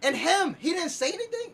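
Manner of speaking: strained, fading voice; losing voice. Real, not acted. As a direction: push through a voice that's giving out. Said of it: "Yo, I'm losing my voice".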